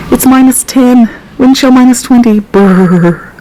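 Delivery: shivering with cold. Real, not acted. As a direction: say it while shaking from the cold. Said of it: "It's freezing out here".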